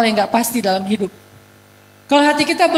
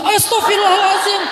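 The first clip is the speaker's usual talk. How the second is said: teriakan kaget; 6 semitones higher than usual. Retold or imitated. Jamaah kaget mengenali ustadz.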